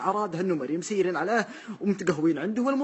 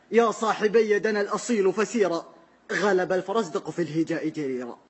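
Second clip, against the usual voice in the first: slow, measured poetic chant; poem recitation. Acted. Recites the poet's verse.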